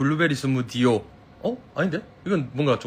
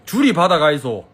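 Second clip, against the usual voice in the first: Gyeongsang dialect; 2 semitones higher, 5 dB louder than usual. Shown as a demonstration. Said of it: "서울말 잘하긴 하는데".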